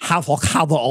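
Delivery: put-on a touch of Spanish accent on Avocado. Coworker suddenly dropping into a Spanish accent. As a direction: Avocado rolled the Spanish way, ah-vo-KAH-do. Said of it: "she drops into the deepest accent".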